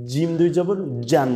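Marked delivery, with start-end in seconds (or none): 1.1-1.3 জান with a firm J from mid-tongue; hard J in জান. Shown as a demonstration. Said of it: "শক্ত করে জিহ্বার মধ্যখান".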